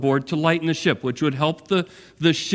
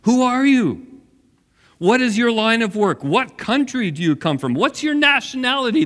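demanding questions; 7 semitones higher than usual. Acted. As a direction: fire the questions at him, pressing. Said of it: "they demanded".

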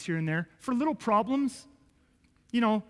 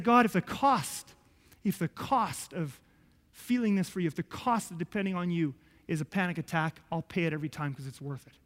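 solemn vow; 3 semitones lower than usual. Retold or imitated.

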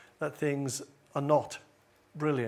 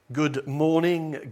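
formal greeting; 4 dB louder, slower than usual. Shown as a demonstration. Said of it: "That's rather formal".

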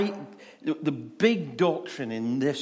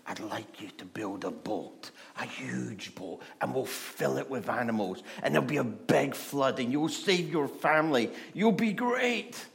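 a gentle hint of God speaking close to his ear; God's voice. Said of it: "whisper in his ear".

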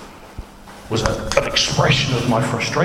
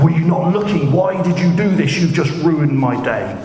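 raised, higher and louder mock complaint; mock angry driver; 7 semitones higher, 4 dB louder than usual. Preacher acting what he did not say after the crash, mock angry. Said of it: "My first question was not".

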